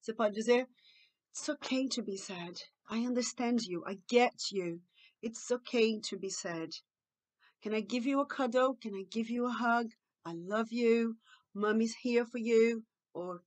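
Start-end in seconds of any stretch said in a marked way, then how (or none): 1.3-12.8 tender comforting. Shown as a demonstration. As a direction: soothe an upset child sincerely. Models empathetic replacement phrases. (consolo suave e carinhoso)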